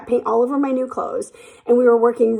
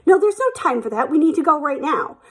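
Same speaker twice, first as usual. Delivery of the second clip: higher-pitched mock bossy boss; bossy insistence; 4 semitones higher than usual. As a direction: overrule them in a raised pitch. Boss overrules her in retold exchange.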